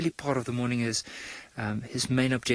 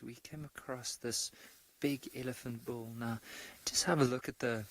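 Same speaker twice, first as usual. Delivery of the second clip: hushed ranger voice; 9 dB quieter than usual. Real, not acted. Ranger speaking softly near elephant.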